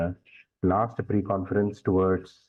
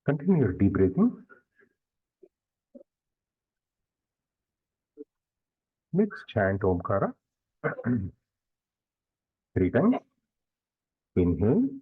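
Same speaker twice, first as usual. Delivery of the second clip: guided meditation. Real, not acted. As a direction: lead them gradually into stillness, leaving long silences.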